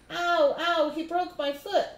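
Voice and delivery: high, loud hammed-up wail of pain; cried out in pain. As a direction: play up the hurt foot. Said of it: "Louis cried".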